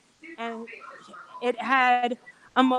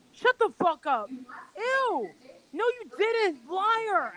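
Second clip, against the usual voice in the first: high-pitched mock-incredulous friend; shocked disbelief; 7 semitones higher, slower than usual. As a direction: retell her reaction in high, scandalized disbelief. Retold friend's shocked disbelief at arrest.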